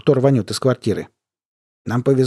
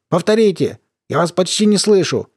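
raised, higher voice over a bad line; to someone hard of hearing; 7 semitones higher than usual. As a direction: call out as if the line is breaking up.

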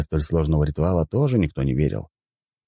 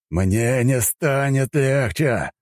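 growled; 9 semitones higher, much slower than usual. A narrator's reading. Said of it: "прорычал Сильвио".

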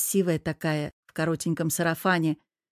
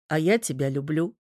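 coaxing; 3 semitones lower than usual. Acted. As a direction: sweet-talk her out of her anger. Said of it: "вкрадчиво проговорил чёрт". (вкрадчиво, мягко)

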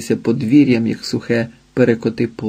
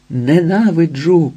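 hateful cry; 4 semitones higher, slower than usual. A narrator's reading. Ілія кричить Ізидорі про ненависть, несамовито. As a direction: drag out ненавиджу in fury. Repeated, second take.

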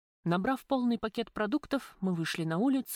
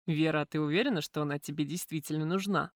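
cautious; 3 semitones lower than usual. A narrator's reading. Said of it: "осторожно спросил Михаил".

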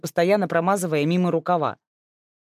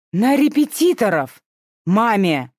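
louder, higher, slow outrage; indignant retort; 5 semitones higher, 6 dB louder, slower than usual. Acted. Older sister snaps back over the tutoring money. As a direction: hammer each word home.

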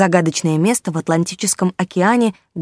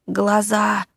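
muffled; 2 semitones higher than usual. Acted. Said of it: "глухо послышалось из-под полиэтилена".

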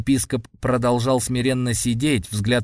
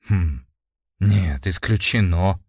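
confident; 4 semitones lower, slower than usual. A narrator's reading. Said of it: "уверенно мотнул головой Женя".

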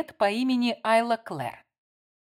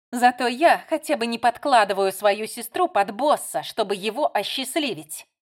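loud, higher heated scolding; 3 semitones higher, 6 dB louder than usual. Acted. Melissa lectures her sister angrily, louder and higher.

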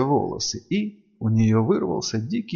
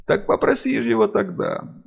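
howl; 10 semitones higher than usual. A narrator's reading. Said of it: "взвыло создание".

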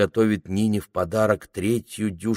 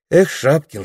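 bitter sigh; 8 semitones higher, 7 dB louder than usual. Acted. Anfisa's bitter exclamation.

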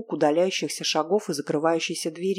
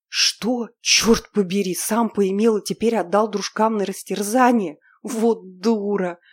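higher, louder burst of outrage, the last words slowed; shocked anger; 4 semitones higher, 6 dB louder than usual. Acted. Heroine realizing the betrayal, shocked and angry. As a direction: spit it out, furious at herself.

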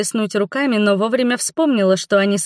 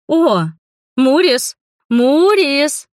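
громко и высоко, сладко зовёт кота; подзывает кота ласковым медовым голосом; 7 semitones higher, 5 dB louder, much slower than usual. A narrator's reading. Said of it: "медовым голосом позвала я". (ведьма сладко зовёт кота Муриса)

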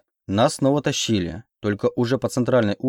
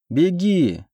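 high-pitched cry to flee; urgent shout; 8 semitones higher than usual. A narrator's reading. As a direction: cry it out to save her. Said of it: "я ей выкрикнуть".

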